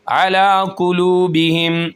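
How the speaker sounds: अला drawn out, काफ heavy; slow, careful reading with a heavy काफ; recited phrase. Shown as a demonstration. Teacher reading the phrase slowly for students. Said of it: "अला को एक अलिफ के बराबर खींचेंगे".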